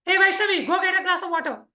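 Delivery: father's voice. Shown as a demonstration. Father tells daughter to fetch water, lightly voiced. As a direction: call her like a dad giving an order. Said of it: "father will have one voice".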